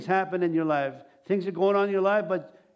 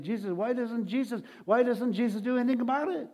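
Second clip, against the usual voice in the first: mildly upset; 4 semitones higher than usual. Retold or imitated. Man unable to see Jesus, mildly upset complaint. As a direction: imitate someone getting upset, lightly. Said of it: "he's getting upset".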